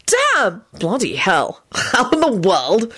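stunned exclamations, starting high; astonished. A narrator's reading. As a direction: gasp out each exclamation in disbelief. Players stunned by her correct answer.

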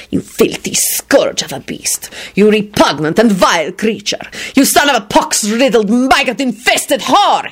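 slow-starting tirade climbing in pitch; wrathful yell. A narrator's reading. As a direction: build from a hissed insult to high, drawn-out fury. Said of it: "he yelled wrathfully".

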